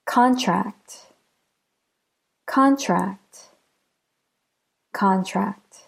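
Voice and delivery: "Contract" with CON longer and stronger; "Contract" as a noun, CON-tract; stress on first syllable. Shown as a demonstration. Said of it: "Let's listen to some examples of two-syllable nouns".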